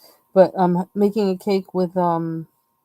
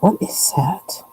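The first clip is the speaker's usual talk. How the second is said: hushed, unvoiced whisper; slower than usual. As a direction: whisper it, slow and wary. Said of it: "I'm like".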